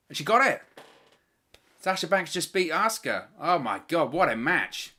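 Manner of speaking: shouting the finish, high and loud; excited shout. Real, not acted. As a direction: erupt as the pin lands. Match ends, commentator erupts.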